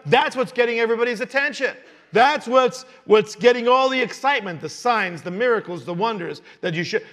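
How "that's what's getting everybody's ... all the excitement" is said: higher, urgent preacher's delivery; emphatic preaching. Acted. Preacher explaining the crowd's excitement, emphatic preaching. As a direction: drive the point home to the congregation.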